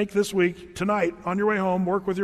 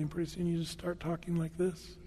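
hushed, much softer teacher voice; talking quietly; 10 dB quieter than usual. Shown as a demonstration. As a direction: drop your volume to draw them in. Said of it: "start talking a little more quietly".

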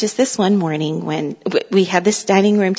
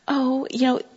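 indulgent excusing; 6 semitones higher, 5 dB quieter than usual. Retold or imitated. Mother's former excusing thought, acted.

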